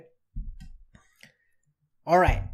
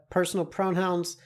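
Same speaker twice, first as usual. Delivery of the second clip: usual speaking voice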